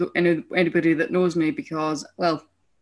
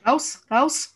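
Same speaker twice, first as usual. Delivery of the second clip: high, loud Austrian teacher shooing; Austrian accent; 8 semitones higher, 4 dB louder than usual. Retold or imitated. Teacher sending pupils out, loud Austrian accent. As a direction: shout them out in Austrian accent. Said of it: "she had this really thick Austrian accent".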